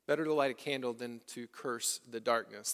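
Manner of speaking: a quiet echo of the saying; soft repeat. Shown as a demonstration. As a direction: repeat it gently to the people. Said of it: "Pay attention".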